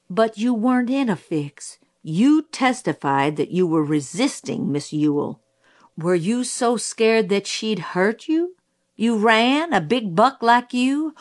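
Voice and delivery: lightly voiced, disbelieving cross-examiner; scornful prosecutor. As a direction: press the witness with mild scorn. Prosecutor challenges witness.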